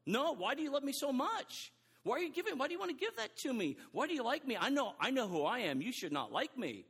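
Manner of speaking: false humility. Retold or imitated. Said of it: "It's really false humility".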